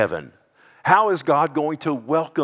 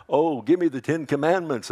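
slightly raised mock deathbed plea; mock crying out; 4 semitones higher than usual. Preacher imagining the wrong deathbed plea, mock crying out. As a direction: feebly cry out in pretend desperation. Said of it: "I'm not gonna cry out".

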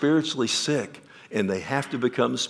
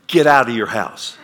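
loud exasperated yell; shout; 9 dB louder than usual. Acted. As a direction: bark the order to get out. Neighbor finally yells at homeowner.

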